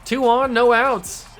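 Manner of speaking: high-pitched, excited call; excited play-by-play. Real, not acted. Announcer following a fly to right field, excited. Calling a live hit, excited.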